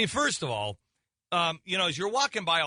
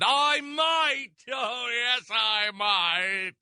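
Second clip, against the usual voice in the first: hammed-up posh snob, louder and higher; 7 semitones higher, much slower than usual. Dad answering daughter in loud mock posh voice. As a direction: declare it like a pompous aristocrat. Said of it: "Do you have to do it that loudly".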